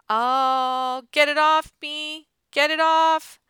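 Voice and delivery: high, loud, terrified yelling; panicked scream. Acted. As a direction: shriek in panic at the bats. Bats in his hair, panicked yelling.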